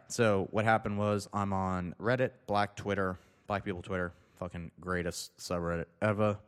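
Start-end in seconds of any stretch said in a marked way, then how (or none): none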